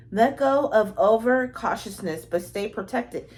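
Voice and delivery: slow, measured reading of the card text; deliberate tarot reading voice; reading a card aloud. Acted. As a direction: read it out slowly like an oracle message.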